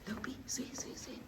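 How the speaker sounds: soft breathy whisper; hushed, so as not to disturb. Real, not acted. Hushed pointing in quiet cave.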